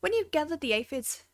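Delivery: put-on lightly done Irish accent; a hint of an Irish stable keeper, easygoing. Stable keeper thanking the adventurer, light Irish accent. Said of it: "if you have an Irish accent".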